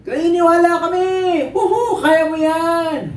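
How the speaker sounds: high whooping encouragement; cheering crowd. Acted. Crowd urging on the tightrope walker, excited high cheering. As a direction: play an adoring audience, last words stretched.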